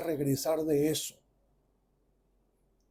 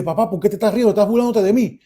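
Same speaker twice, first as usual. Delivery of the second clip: higher, louder offended questioning; annoyed; 3 semitones higher, 5 dB louder, faster than usual.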